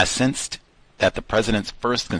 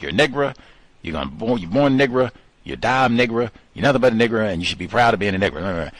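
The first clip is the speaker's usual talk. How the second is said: put-on drunk racist rant; 3 semitones higher, faster than usual. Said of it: "imagine if he had been liquored up".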